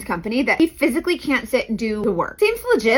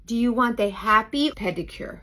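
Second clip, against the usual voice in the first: put-on Vietnamese accent; 2 semitones lower, 5 dB quieter, slower than usual. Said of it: "very strong Vietnamese kind of accent".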